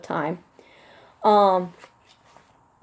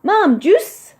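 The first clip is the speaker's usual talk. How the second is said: put-on very high, loud little-kid demands; little son demanding; 12 semitones higher, 8 dB louder, much slower than usual. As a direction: chirp it like a small boy at dawn. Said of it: "he turns on my light and goes".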